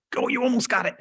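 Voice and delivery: high encouraging cheer. Retold or imitated. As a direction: cheer her on, almost there. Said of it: "and you're like".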